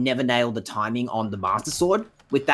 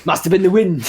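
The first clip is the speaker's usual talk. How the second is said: louder, higher hammed-up guard line; dismissive guard voice; 5 semitones higher, 6 dB louder than usual. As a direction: shrug it off like a clueless guard. Mocking guard dismissing noise.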